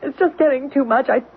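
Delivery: rising panic, pleading to leave; agitated. Acted. Frightened wife begging her husband to leave, agitated. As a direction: voice climbing as she loses her nerve. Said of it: "getting increasingly agitated".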